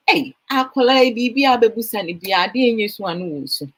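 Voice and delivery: put-on quick tumbling toddler complaint; toddler's fast whiny answer. Four-year-old daughter answering her mother, quick and fussy. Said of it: "She go".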